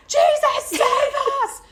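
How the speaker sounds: high, loud desperate plea; panicked cry. Retold or imitated. Still praying in the storm, high and loud. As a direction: cry out for rescue. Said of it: "I'm still like".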